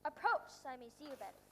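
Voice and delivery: put-on a regal, commanding old king; pompous king. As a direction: speak as a vain monarch on his throne. King character voice.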